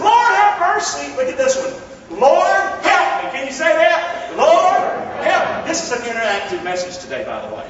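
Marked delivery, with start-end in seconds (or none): 0.0-5.7 crying out prayer. Acted. Preacher cries out prayer.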